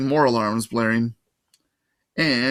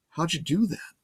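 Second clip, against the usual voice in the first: amazed; 5 semitones higher, 4 dB quieter than usual. Acted.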